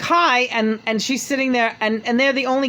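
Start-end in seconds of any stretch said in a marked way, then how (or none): 0.0-0.4 high mock hello; a singer's voice. A singer greeting her guests, high mock. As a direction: squeak out the singer's hi. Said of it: "So she's like".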